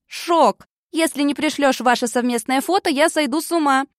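squealing with excitement, high and loud; excited. A narrator's reading. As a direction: gush it like breaking news. Excited text message read.

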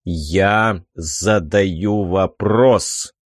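low, slow, dull irritated voice; a hint of annoyance, muffled; muffled, slightly irritated voice. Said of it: "раздался глухой, явно слегка раздражённый голос".

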